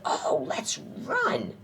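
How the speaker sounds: very slow, stretched exclamation; drawn-out cry of dismay. A narrator's reading. Third squirrel urging the others to run, drawn-out cry. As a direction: stretch out each word.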